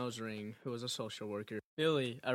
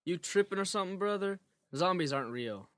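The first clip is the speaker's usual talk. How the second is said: put-on scoffing teen, raised voice; cocky, higher and louder; 8 semitones higher, 6 dB louder than usual. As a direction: brush him off with attitude. Teen mocks the stranger.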